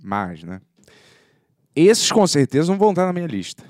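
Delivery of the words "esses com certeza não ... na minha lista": higher, louder, rushed punchline; loud fast punchline. Acted. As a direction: blurt the punchline.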